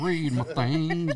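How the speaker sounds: slow, drawn-out, laughing; slow laughing echo. Pretend. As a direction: drag it out while laughing.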